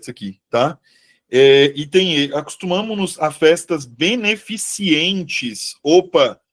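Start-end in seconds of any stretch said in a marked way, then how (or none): 3.8-5.8 beneficentes slipped into "beneficientes"; mispronounced beneficentes. Real, not acted. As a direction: say beneficentes with an extra i, "-ci-entes". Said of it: "Então tá aqui meu erro". (beneficentes dito errado, "beneficientes")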